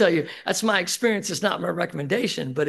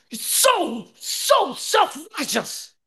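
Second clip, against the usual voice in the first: much higher, slow, drawn-out sneer on "self-righteous"; mocking accusation; 11 semitones higher, 5 dB louder, much slower than usual. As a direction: mimic the scornful newcomer. Angry newcomer mocking the speaker.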